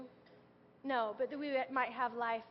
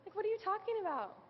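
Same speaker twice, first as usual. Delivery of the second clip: retold husband; 7 semitones higher than usual. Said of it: "and he's like".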